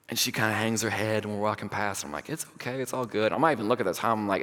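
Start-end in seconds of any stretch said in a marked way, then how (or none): 2.3-3.3 hushed, easygoing comfort; soft reassurance. Retold or imitated. Pastor consoling a girl who lost her nerve, soft reassurance. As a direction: let them off gently, softly.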